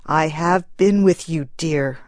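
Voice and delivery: husband gently comforting his grieving wife. Acted. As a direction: say it gently to soothe her. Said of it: "said the man gently".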